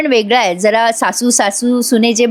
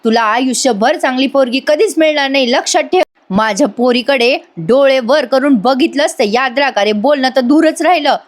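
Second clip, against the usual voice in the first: threatening scolding; 3 semitones higher than usual. Retold or imitated. Aunt warning Yash away from her daughter, threatening. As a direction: warn him off with acted sternness. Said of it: "त्यावर सुलू आत्या ओरडून म्हणते".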